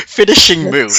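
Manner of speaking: loud, high hyped call; mock announcer shout. Narrator hypes the final move, high loud mock announcer.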